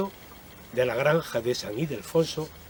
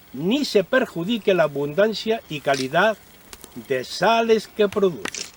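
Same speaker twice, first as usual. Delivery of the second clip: loud, raised declaiming proclamation; town crier; 3 semitones higher, 3 dB louder than usual. Pretend. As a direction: proclaim it like an old decree. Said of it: "Les voy a leer la introducción al mismo".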